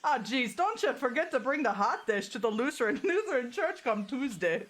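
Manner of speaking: put-on Minnesota accent. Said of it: "I think the ocean is from Minnesota".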